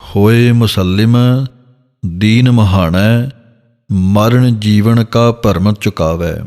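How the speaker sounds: slow, measured gurbani reading; scripture recitation. Shown as a demonstration. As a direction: recite it slowly like a kirtan line.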